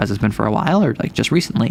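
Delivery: mock under-breath mutter. Retelling what a girlfriend asked under her breath, retelling a mutter under breath. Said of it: "Like under her breath is like".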